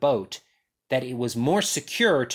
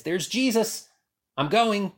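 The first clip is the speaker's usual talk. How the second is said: eager Peter; 7 semitones higher than usual. Retold or imitated. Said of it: "the heart that Peter had".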